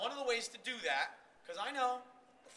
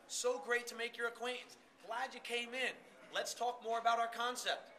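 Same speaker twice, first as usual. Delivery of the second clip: friendly booth greeting; 3 semitones higher than usual. Shown as a demonstration. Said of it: "keep your hands in this zone".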